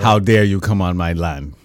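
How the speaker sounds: mock-indignant, accent wandering from British to African; botched British accent, African-sounding. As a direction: play an offended lord in a terrible accent. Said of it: "what are you, African now".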